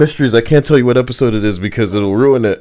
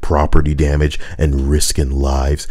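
low mock-Cockney legal expert; lightly put-on Cockney, low and grave; Cockney accent; 6 semitones lower than usual. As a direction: read it as a solemn Cockney. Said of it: "Why is this in the Cockney accent too?".

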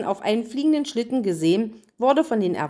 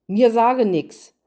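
stubborn refusal, slow and louder in dialect; defiant; 3 semitones higher, 5 dB louder, slower than usual. Acted. Hänsel refuses to answer the queen, defiant and slow. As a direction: dig in your heels and refuse. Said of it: "Hänsel wehrte trotzig ab".

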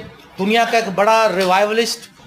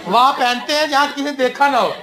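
laughing repeat; 4 semitones higher than usual. Real, not acted. Joke on church clothes.

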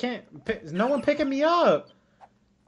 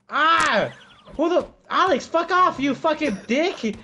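swearing tirade; 4 semitones higher than usual. Real, not acted. Killed by Alex, swearing.

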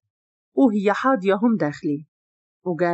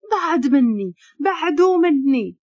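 frightened plea; 5 semitones higher, slower than usual. Acted. Frightened woman pushes man away.

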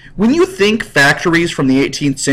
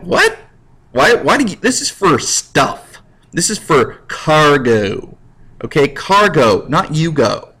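mock indignant. Railroad refuses passengers.

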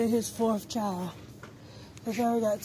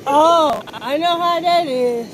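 put-on high voice; 5 semitones higher, 12 dB louder, slower than usual. Chatting to stranger in store.

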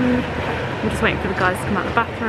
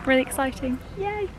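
excited; 4 semitones higher, 3 dB quieter than usual. Real, not acted. Arriving at Disneyland Paris.

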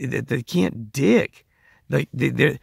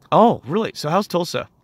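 higher, lilting re-enacted small talk; mock interest; 5 semitones higher, 3 dB louder than usual. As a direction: act keen to draw them out. Re-enacting his interested questioning.

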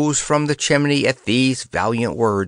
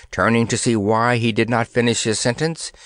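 ordinary delivery, nothing marked

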